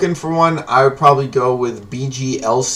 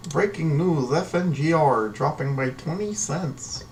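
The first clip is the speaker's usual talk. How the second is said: mock TV news anchor, a bit higher; 4 semitones higher, 3 dB quieter than usual. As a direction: read it like a cheesy news anchor. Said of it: "Sound like a shitty news anchor".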